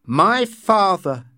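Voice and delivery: slow, firm and clear. A narrator's reading. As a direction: declare it plainly to him. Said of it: "in a clear voice".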